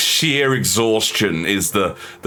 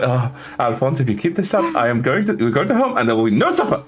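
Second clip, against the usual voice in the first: threatening parent; 4 semitones higher than usual. Acted.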